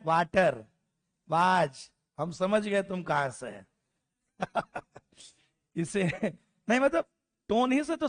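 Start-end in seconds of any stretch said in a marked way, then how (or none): 0.1-1.9 वाटर and वाज with flat unrounded a; mock the local वाज, no lip rounding; regional pronunciation. Shown as a demonstration. Teacher imitating students' flat वाटर, वाज. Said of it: "हम क्या बोलते हैं?".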